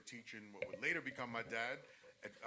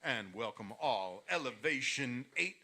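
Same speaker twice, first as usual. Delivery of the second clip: lucha libre announcer; 3 semitones higher, 11 dB louder than usual. Shown as a demonstration. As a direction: announce it like a big title fight, loud and high. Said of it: "We want the intro".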